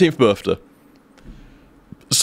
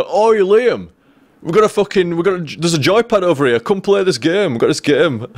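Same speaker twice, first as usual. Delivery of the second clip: imitated mate calling a friend over, pitched up; higher, lightly put-on cajoling; coaxing; 6 semitones higher than usual. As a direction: play a mate luring a drunk friend along. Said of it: "trying to coax me into the car".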